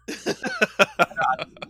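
short loud laugh. Real, not acted. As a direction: let out a laugh. Laughing at own joke.

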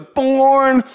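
high, loud, held-out yell; shout. A narrator's reading. Shai star-jumping into the camcorder lens, exuberant shout. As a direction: belt the word out like an exuberant kid. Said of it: "he star jumps and shouts".

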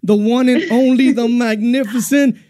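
bigging up the guest with a laugh; excited hype-up. Real, not acted. Radio host introduces the star guest with a laughing shout.

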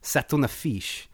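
slow French 'C'est une affiche'; amateur French, 'affiche' ending in FEESH; French phrase. Shown as a demonstration. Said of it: "which sounds like you're saying".

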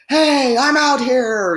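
high, loud, slow calling out like a dog; mock dog call. Imitating a dog calling to other dogs, high and loud. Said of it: "the guy will go out and go".

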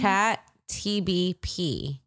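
slow, even robot voice. Shown as a demonstration. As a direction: drag it out like a machine. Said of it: "in the most robotic voice".

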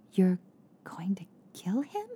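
shocked. A narrator's reading. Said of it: "Tika asked with shock in her voice".

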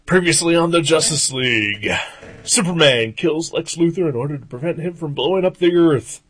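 dramatic recap narrator; punchy dramatic comic narration. Acted. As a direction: read it like a radio drama. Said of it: "It's like a little radio drama".

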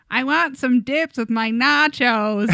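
slow, exaggerated fake American accent; mock American accent. Podcaster mimicking Londoners asked for an American accent, slow and exaggerated. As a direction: imitate Brits attempting an American accent, drawn out. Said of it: "asked them to do an American accent".

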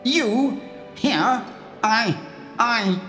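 high stuttering disbelief; a minister too stunned to finish; amazed stammer. A narrator's reading. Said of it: "beside himself with amazement".

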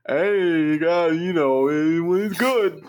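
garbled, drawn-out fake Creole; mock Creole. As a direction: mumble a slogan in put-on Creole. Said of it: "that voice I do for Creole".

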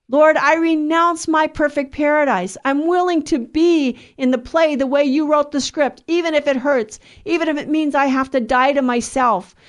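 urgent plea of surrender to God; fervent prayer. Real, not acted. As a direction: pray it out with resolve, phrase upon phrase. Prays aloud to the Lord.

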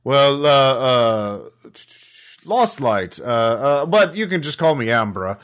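a hint of a flustered old train worker; elderly drow voice. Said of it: "elderly drow voice, uh, ac-, slightly accented".

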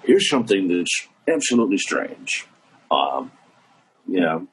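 dry late-night host impression, dropping low; Johnny Carson. Comedian recalling his old walk-on bit, Carson impression. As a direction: trail off into a low monologue pause. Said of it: "See if I can remember Johnny".

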